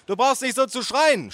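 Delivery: very high, strained aunt voice; shrieking aunt. A narrator's reading. Aunt telling nephew not to shout, shrieking. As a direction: shriek the complaint. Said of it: "schrie meine Tante".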